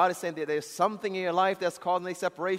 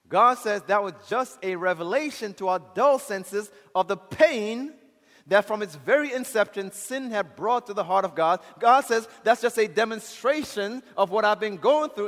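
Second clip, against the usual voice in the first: fervent preaching; 4 semitones higher, 7 dB louder than usual. Acted. Preacher voices God's pain.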